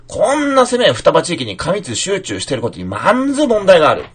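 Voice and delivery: Fukushima accent, twisting まず into 「まんず」 with a nasal n; earthy Fukushima read, 「まんず問題がある」; stronger Fukushima accent. Shown as a demonstration. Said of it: "まんずっていうふうに、より福島的にひねって". (もっと福島的に「まんず」と訛らせて)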